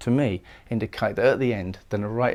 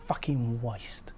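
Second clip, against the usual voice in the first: mock anger; 7 dB quieter, slower than usual. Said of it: "I hear it as if he's saying".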